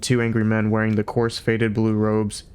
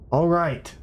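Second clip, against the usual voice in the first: bawling; 8 semitones higher than usual. A narrator's reading. Vroom Fondle bawling back at his colleague. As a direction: bawl it while banging the desk. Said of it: "bawled Vroom Fondle".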